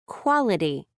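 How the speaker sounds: "Quality" opening on a puff of air; "Quality" with an aspirated k sound. Shown as a demonstration. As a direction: release the first sound of "Quality" with extra breath. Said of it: "with an extra puff of air".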